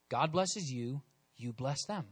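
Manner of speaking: quiet and sure, the corrected line; soft correct version. Shown as a demonstration. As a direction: say it gently as the true point. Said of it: "No, no, no, no".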